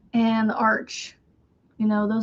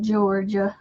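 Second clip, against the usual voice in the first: "Georgia" with a Southern lilt; Southern belle accent; 2 semitones lower than usual. Real, not acted. Former Georgia resident recalling home, Southern belle accent. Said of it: "I can still say Georgia like a Southern belle".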